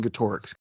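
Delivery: Getorix as guh-TOR-ix; middle-syllable stress. Retold or imitated. Host quoting Dustin's habitual version, middle-syllable stress. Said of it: "Dustin just keeps saying".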